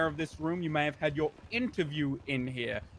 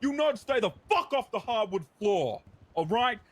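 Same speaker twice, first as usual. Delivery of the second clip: loud gung-ho jock; 4 semitones higher, 4 dB louder than usual. Acted. Jock cop yelling at recruits.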